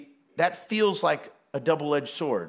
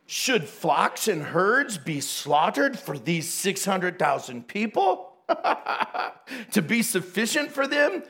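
sarcastic. Retold or imitated. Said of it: "sarcasm enters".

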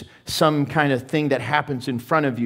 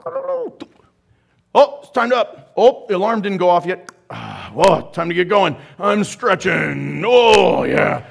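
eager early riser; 2 semitones higher, 5 dB louder than usual. Pretend. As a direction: bounce out of bed gladly. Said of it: "one who at five thirty goes".

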